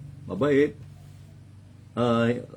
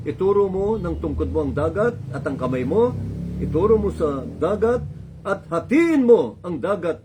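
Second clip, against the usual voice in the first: commanding; 4 semitones higher than usual. Acted. God's command to Moses, preached.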